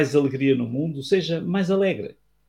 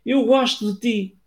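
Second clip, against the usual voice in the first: echo reply; 8 semitones higher than usual. Acted. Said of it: "uma voz respondeu".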